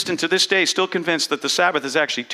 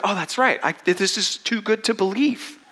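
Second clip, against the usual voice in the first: brain voice; 4 semitones higher than usual. Retold or imitated. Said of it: "It's like".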